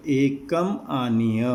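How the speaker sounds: each word of "एकम आनीय" drawn out slowly; slow recitation. Shown as a demonstration. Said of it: "teacher slowly spells out the verse words".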